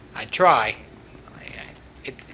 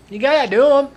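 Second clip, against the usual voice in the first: 1 excited; 10 semitones higher, 8 dB louder than usual. Real, not acted. Excited outro to viewers.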